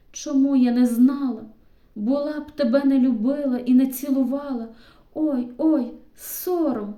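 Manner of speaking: half-laughing protest pushing him away; flustered girl. A narrator's reading. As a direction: Yaryna embarrassed and protesting to Stepan. Yaryna flustered after confession.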